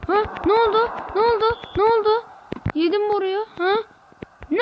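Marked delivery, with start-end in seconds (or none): 0.5-2.1 higher, startled repeated question; sharp, raised what-happened; baffled. Real, not acted. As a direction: ask again and again in disbelief. Confused gamer repeating the question.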